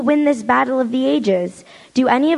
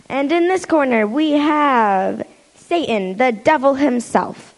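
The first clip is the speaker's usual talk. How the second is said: ring announcer; 3 semitones higher, slower than usual. Acted. Announcer introduces the devil.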